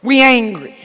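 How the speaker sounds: a mildly mocking echo of what critics say; mock accusation. Echoing critics who slander black women, mildly mocking. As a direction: toss it back like their insult, lightly mocked. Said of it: "of being called angry".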